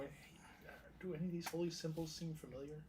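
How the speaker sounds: soft whisper to a friend. Real, not acted. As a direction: whisper it quietly. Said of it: "I'll just whisper to".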